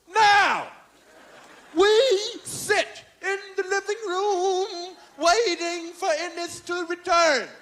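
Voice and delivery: pompous impression with stretched, punched words; Bill Cosby. Father telling about his son's night out, ponderous impersonation. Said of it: "Bill Cosby just called me up".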